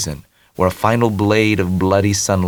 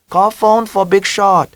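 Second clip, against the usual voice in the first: mock Vietnamese accent, high and slow; teasing mother imitation; 12 semitones higher, 5 dB louder than usual. A narrator's reading. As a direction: tease her by copying her accent. Tommy imitates mother's phrasing.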